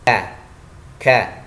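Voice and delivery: "Ka, ka" with a puff of air on each k; kaf with hams. Shown as a demonstration. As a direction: release breath sharply on "ka". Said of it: "Ada udara yang keluar". ("ka" dengan udara yang keluar)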